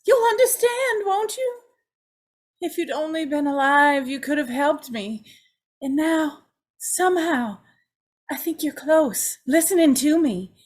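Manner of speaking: pleading, half-weeping confession to her mother; begging her dead mother to believe her; tearful plea. Acted. Joan pleads tearfully with her dead mother for understanding.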